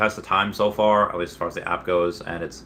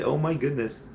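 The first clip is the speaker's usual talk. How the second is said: awed excitement; 8 semitones higher than usual. Real, not acted. Fanboy thrilled his post was liked.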